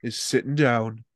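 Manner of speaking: slow, deliberate Geordie voice-over; Big Brother narrator. Acted. Doing the Big Brother one, slow Geordie announcer. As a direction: intone it slowly in a Geordie accent. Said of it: "Or the Big Brother one".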